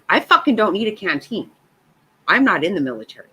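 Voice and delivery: retold fury at being handed a canteen; angry outburst. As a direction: snap back at the husband, fast and loud. Retelling angry outburst at husband.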